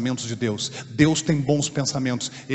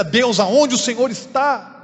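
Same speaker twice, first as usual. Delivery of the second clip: raised, drawn-out plea; louder, higher retold prayer; calling out to God; 8 semitones higher, 7 dB louder, slower than usual. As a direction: cry out a question to heaven, slow and high.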